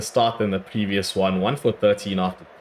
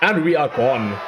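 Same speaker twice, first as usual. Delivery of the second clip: louder, higher outburst; dismayed shout; 5 semitones higher, 4 dB louder than usual. Real, not acted. Gamer losing a wicket, loud dismayed shout. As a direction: shout as your batsman is out. Loses his wicket, exclaims.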